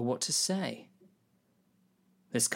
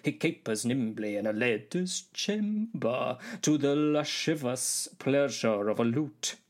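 measured theatrical verse delivery; stage soliloquy, drawn out in places; Shakespeare recitation; slower than usual. Acted. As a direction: declaim the verse with care. Recites Shakespeare's speech to its author.

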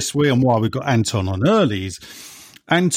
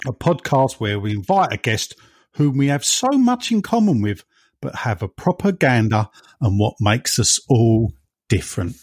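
telephone voice. Acted. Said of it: "I did that with my telephone voice".

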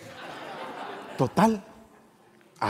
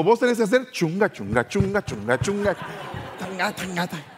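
drum beat sounds; 6 semitones higher than usual. Retold or imitated. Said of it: "me dijo".

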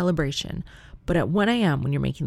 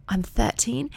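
imitating a polite British child, pitched up; dainty British daughter impression; little British voice; 7 semitones higher, slower than usual. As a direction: put on a young girl's very proper British accent. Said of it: "Violet's little British voice".

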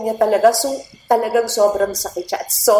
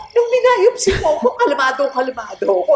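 retold protest; 5 semitones higher than usual. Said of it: "sabi ko".

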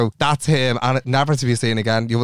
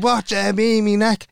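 higher-pitched indignant query; retold affronted question, pitched up; mock indignation; 5 semitones higher than usual. Retold indignant reply to lover.

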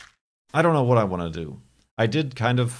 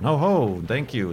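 mock refusal; 5 semitones higher, 4 dB louder than usual. Refusing the long line, mock.

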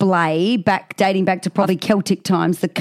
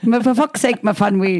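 put-on Welsh accent; 2 semitones higher than usual. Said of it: "the Welsh accent".

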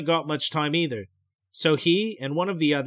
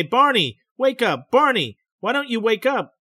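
calling out, higher and louder; trying to rouse him, urgent; 6 semitones higher, 4 dB louder than usual. A narrator's reading. Betty calling her sleepwalking husband Barney, urgent call.

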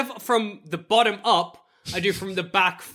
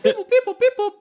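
high beeping droid chatter; droid beeps; 3 dB louder, faster than usual. Acted. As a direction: beep it like R2-D2. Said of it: "I'm like".

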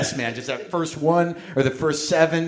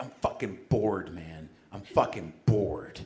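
sullen bored; 9 semitones lower, 10 dB quieter, slower than usual. Retold or imitated. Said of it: "I would say things like".

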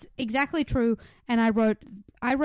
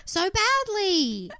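high drawn-out exasperated wail; mock outrage; 7 semitones higher than usual. Griping to co-host about her creased pants, mock outrage. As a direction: stretch each phrase into a pitched-up plea.

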